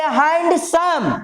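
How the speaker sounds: हैंडसम in two distinct beats, "haind-sam"; two syllables. Shown as a demonstration. Teacher giving a double-syllable example, हैंडसम in two parts. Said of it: "दो खंड में बोले".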